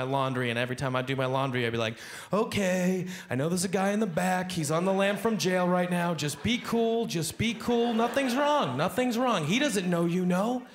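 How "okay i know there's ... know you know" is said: higher tense self-reassurance; nervous self-talk. Retold or imitated. Comic doing laundry mutters to himself, mildly scared. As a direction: keep yourself calm with a killer near.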